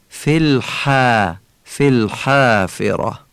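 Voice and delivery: slow الحافره with a long, light "æ" after h; thin long alef. Shown as a demonstration. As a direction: stretch a thin front "a" in الحافره. (الحافره با الفِ نازک و کشیده)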